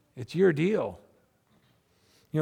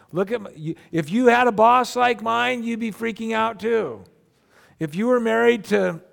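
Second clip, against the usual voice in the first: building mock agitation, getting higher and louder; defensive protest; 3 semitones higher, 3 dB louder than usual. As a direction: protest your excuses with growing exasperation. Acted defensive excuses, building in agitation.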